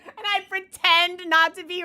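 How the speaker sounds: high, loud, slow, teary voice; real crying while retelling; tearful. Real, not acted. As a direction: let the tears into the words. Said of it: "tears just stream down my face".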